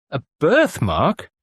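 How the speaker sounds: slow, hopeful lift; a hopeful question; brightening. A narrator's reading. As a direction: seize on it with sudden hope.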